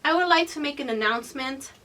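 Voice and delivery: playfully proclaimed to a room; mock class announcement. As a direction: address the whole classroom emphatically.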